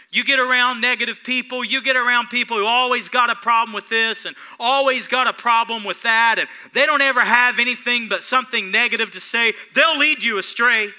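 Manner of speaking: loud, driving preacher warning; full-force preaching. Acted. Preacher warning congregation about bad friends, loud fervent preaching. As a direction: hammer the warning home to the flock.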